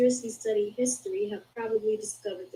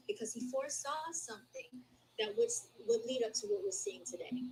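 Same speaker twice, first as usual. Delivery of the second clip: hushed ominous whisper; 5 semitones higher, 7 dB quieter than usual. Acted. Reading book aloud, dramatic hush.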